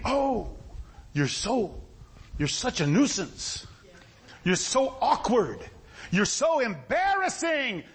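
slow, exasperated reproach building in pitch; mock embarrassed onlookers telling someone off; acted scolding. Acting out crowd scolding the beggar.

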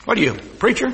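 mildly mocking question; lightly sneered imitation; imitated insult. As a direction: toss the title out like an insult. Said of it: "they say it like it's an insult".

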